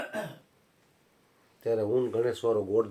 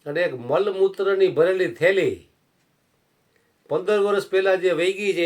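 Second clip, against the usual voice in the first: loud, high rebuke from the saint; stern scolding; 6 semitones higher, 6 dB louder than usual. Acted. Saint rebuking the old devotee, high and loud. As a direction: thunder at him for clinging to his wife.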